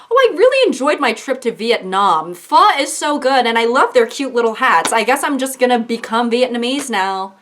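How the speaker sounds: a hint of a naive gushing tourist; mock tourist. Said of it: "be like".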